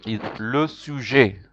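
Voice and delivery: le sujet slow, luh soo-zhay; slow classroom model of le sujet; French word. Shown as a demonstration. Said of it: "teacher modeling French".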